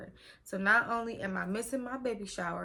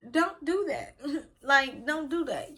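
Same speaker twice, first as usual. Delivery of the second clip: louder, firm don't do that; mother scolds nurse for scaring her, loud and firm; scolding plea; 4 semitones higher, 5 dB louder than usual. Retold or imitated. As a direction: tell her off for the scare.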